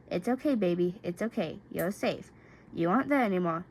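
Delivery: reassuring. Acted. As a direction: hush him gently out of the nightmare. Comforting sobbing boyfriend.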